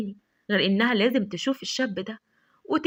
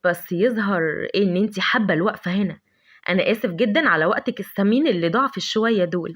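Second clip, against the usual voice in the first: lower, slyly mocking politeness; sarcastic; 4 semitones lower than usual. Adham mocking Lavender before leaving, lower sly sarcasm. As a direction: tease her with fake courtesy. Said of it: "بقليل من الخبث والسخرية".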